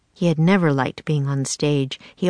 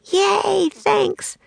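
much higher, delighted cheer; with a grin. Acted. Annie thanking the man for her part, delighted and high. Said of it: "said Annie with a grin".

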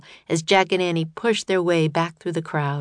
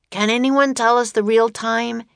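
yelled; 5 semitones higher, 4 dB louder than usual. A narrator's reading. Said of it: "he yelled".

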